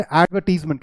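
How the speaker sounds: एडवर्टीजमेंट said with "AD" up front; mistaken "ad" opening. Shown as a demonstration. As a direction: open एडवर्टीजमेंट like the word "ad". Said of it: "ये ऐड नहीं हो". (एडवर्टीजमेंट में "ऐड" वाली शुरुआत)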